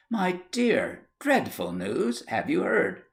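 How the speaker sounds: breathless gossip. Acted. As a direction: savour the dreadful news.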